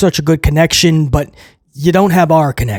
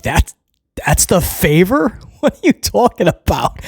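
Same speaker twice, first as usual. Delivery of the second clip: laughing retort. Retold or imitated. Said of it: "Roman starts laughing".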